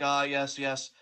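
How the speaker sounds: smug self-fan. Retold or imitated. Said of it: "He isn't like".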